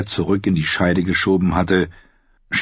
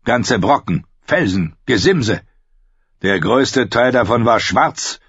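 a hint of a commanding king; lightly voiced, firm royal speech; stern king; 3 semitones higher than usual. King tells Sam of digging for obsidian, mildly stern.

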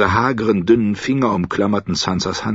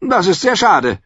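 put-on old lady; 14 semitones higher, 5 dB louder than usual. A narrator's reading. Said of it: "sagte die alte Frau".

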